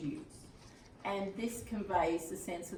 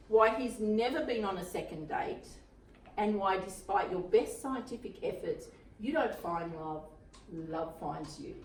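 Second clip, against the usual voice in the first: measured, lightly performed reading; blurb read-aloud. A narrator's reading. Teacher reading a romantic comedy blurb to a class, read-aloud voice. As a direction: read it out phrase by phrase, pausing between.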